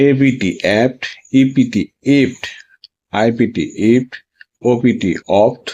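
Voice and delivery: letters first, then the sound; careful pronunciation for students; spelling drill. Shown as a demonstration. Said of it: "এইভাবে উচ্চারণগুলো তোমাকে অবশ্যই মনে রাখতে হবে". (বানান করে স্পষ্ট উচ্চারণ)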